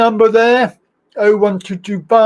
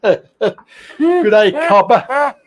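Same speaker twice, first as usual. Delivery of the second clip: laughing through a mock Australian "Good day, Cobber"; real laugh over a light Australian accent; much slower than usual. Real, not acted. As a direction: giggle the Australian greeting out. Repeats greeting, laughing.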